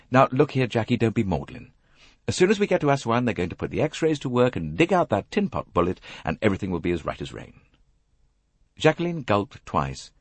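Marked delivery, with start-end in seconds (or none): 0.1-7.6 lightly voiced hearty Englishman; bracing chap. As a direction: buck her up briskly, kindly.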